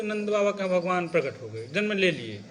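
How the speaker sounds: matter-of-fact, no delight at all; unexcited, subdued announcement; joyless telling. Shown as a demonstration. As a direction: recite the birth without any feeling. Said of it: "तो किसी को कुछ आनंद आया?".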